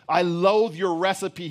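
loud, high, drawn-out outburst; angry cry. A narrator's reading. Boy to his bread-making mother, crying out in rage. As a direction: cry out with loathing, slowly. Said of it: "he cried".

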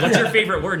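loud, high, laughing question; laughing quote. Retold or imitated. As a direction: ask it through laughter. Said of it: "And they're like".

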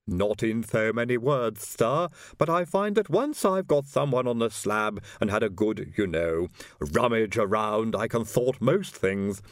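lightly voiced Igor, slow and earnest; a hint of a lisping servant. Igor's voice in the story.

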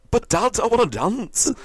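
put-on high, slow, whiny child's plea; pleading Billy. Billy Elliot pleading with his dad, high slow whine. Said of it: "the boy that danced".

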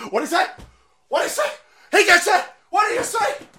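high, shrill mock panic; mocking lefty. Mocking a lefty reacting to the clip, shrill mock panic. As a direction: squeal like an outraged caricature. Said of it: "some lefty right now saying".

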